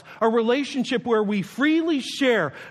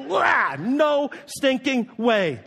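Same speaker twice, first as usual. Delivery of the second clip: mock horrified shout; 5 semitones higher, much slower than usual. Recoiling at teen feet.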